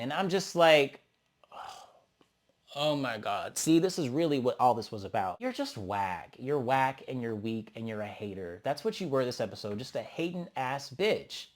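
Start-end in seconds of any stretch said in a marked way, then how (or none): 2.8-11.5 low, soft, scornful put-down; soft disgusted roast. Real, not acted. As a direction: mutter the contempt. Quiet disgusted roast of Dolly.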